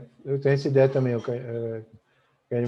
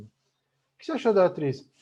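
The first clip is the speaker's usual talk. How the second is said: slow question; 4 semitones higher than usual. Shown as a demonstration. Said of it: "Olha o meu tom".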